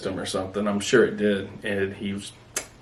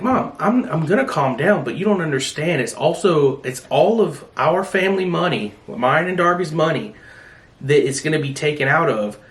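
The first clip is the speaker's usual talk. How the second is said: higher-pitched, worked-up protest to mom; retold agitation; 5 semitones higher than usual. Explaining the family money to mom, retold agitation. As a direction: argue your case, retelling being worked up. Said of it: "Mom told me to calm down".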